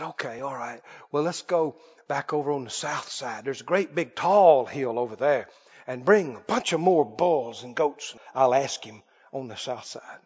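low, soft, offhand agreement; acted subdued wheedling; evasive backpedaling. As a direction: quietly slip in another try. Balaam voiced, trying once more.

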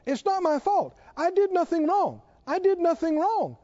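hammed-up indignant denial; adamant insistence. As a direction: mimic someone stubbornly defending themselves. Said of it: "when people get so adamant and say".

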